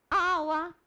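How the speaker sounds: put-on high, loud toddler demand for water; loud babyish one-word whine; baby talk. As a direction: imitate a babyish little boy calling out. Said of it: "tratado em casa como um bebê".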